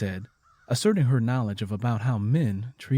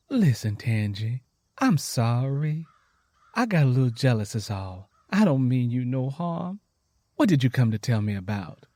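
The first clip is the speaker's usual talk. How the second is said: sincere apology. Acted.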